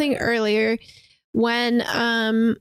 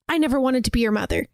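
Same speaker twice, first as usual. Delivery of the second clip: blurting outburst; much faster than usual. Retold or imitated. Mother blurts cruel line to son.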